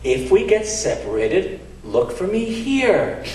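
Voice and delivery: Dave's voice. Retold or imitated. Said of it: "He says".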